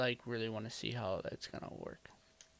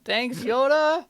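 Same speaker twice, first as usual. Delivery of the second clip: Yoda voice; 11 semitones higher, 10 dB louder, slower than usual. Acted. Answers Yoda in his voice.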